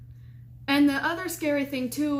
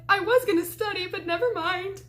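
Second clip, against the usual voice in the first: high, half-crying mock yell; panicked yell; 8 semitones higher than usual. Shaken student snapping at her roommate, high panicky yell. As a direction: imitate a rattled outburst, pitched well up. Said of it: "I'm sorry I yelled at you".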